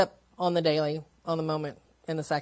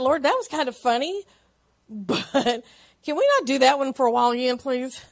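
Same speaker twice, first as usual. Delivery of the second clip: laughing plea; 5 semitones higher, 4 dB louder than usual. Retold or imitated.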